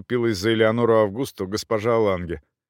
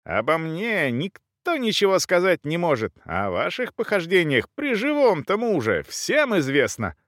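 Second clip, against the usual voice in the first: high-pitched angry accusation; indignant countess's raised-pitch tirade; shouting back; 7 semitones higher than usual. A narrator's reading. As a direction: fling the charge back in a high voice. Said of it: "кричала ей в ответ графиня".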